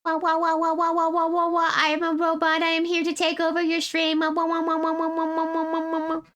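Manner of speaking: high, chanting robot beeps; toy robot voice. Pretend. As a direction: play a silly toy robot. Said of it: "you do sound robotic".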